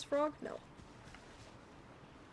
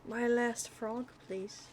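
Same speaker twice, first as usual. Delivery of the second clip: pleading; 5 dB quieter, slower than usual. Pretend. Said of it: "I'm saying it like that".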